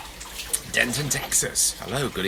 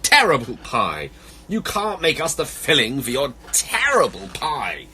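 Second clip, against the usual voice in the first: loud, dramatic animal protest; crying out; 4 semitones higher, 6 dB louder, slower than usual. Acted. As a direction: wail in outrage, storybook style. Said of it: "all began to cry".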